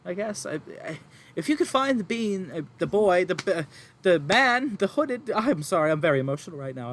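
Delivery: high, loud, tearful mother pleading; distraught farm woman. Acted. Farm woman to adventurers, upset and near tears. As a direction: play the frantic farmwife near tears.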